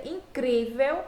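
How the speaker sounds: "incrível" drawn out slowly, stress on CRÍ; tônica na penúltima. Shown as a demonstration. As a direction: stretch and lift the CRÍ in "incrível". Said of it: "esse cri é a sílaba mais forte". ("incrível" devagar, com força na sílaba CRÍ)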